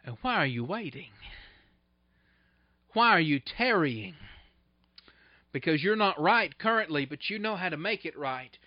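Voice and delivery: low, leaning-in Ananias. Retold or imitated. Ananias leaning over to Saul, asking gently why he waits. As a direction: press him gently: why are you waiting. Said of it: "he kinda leans over and says".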